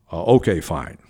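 mildly deepened, official reply; dropped voice. Retold or imitated. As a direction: drop the voice to sound important. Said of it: "I'm dropping my voice".

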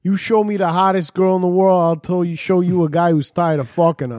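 lightly put-on New Jersey accent; a touch of Jersey wise guy. Podcaster dishing out advice on wives, light New Jersey accent. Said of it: "Are you doing your New Jersey accent?".

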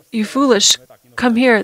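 half-mocking call to the foolish. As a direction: call the fools in, a bit mocking. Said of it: "They don't say this".

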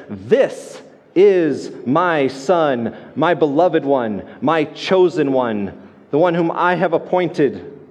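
very slow, drawn-out solemn proclamation; solemn voice of God. Retold or imitated. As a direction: proclaim it like a voice from the cloud. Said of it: "it declares and says".

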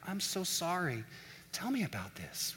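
very soft, gentle condolence; hushed caring friend, lightly acted; sympathetic. Patient friend to someone having a bad day, sympathetic. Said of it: "They move to the lower register voice".

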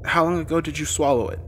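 lightly voiced nurse questioning a patient. A narrator's reading. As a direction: ask it as a pressing medical question. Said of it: "asked a few simple questions".

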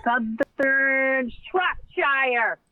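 slow, drawn-out mock English accent; hammy English placename voice. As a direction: stretch it out in a put-on English accent. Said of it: "Is that your English accent?".

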